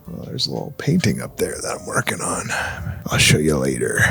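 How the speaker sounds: quiet at night. Real, not acted. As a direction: hush it so nobody wakes. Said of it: "I've got a lower voice right now".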